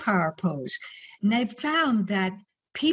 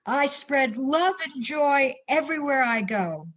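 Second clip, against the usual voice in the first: high, bright proclamation; booming motivational speech; 5 semitones higher than usual. Shown as a demonstration. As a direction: proclaim it with joy. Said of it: "repeat after me".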